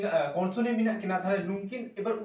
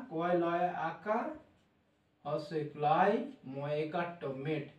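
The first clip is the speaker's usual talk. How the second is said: slow spelling; 3 semitones lower, 5 dB quieter, slower than usual. Shown as a demonstration. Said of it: "লেখা উচ্চারণ".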